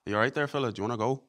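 lightly put-on Irish accent. Shown as a demonstration. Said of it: "when I'm talking like this".

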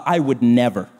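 low, smug self-righteous line. Retold or imitated. Preacher mocking a gossip, low and smug. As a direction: sniff it out, superior. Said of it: "what real slander sounds like".

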